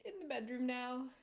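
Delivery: shy coy tease; coy invitation. Pretend. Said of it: "turn toward you and say".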